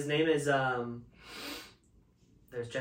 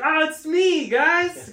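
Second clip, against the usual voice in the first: high, loud British-trying-American mock voice; British faking American accent; 12 semitones higher, 9 dB louder, much slower than usual. Impostor greets the Friends cast as Monica, mock British-American accent. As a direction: put on a bad British actor's American accent. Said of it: "made British trying to be American".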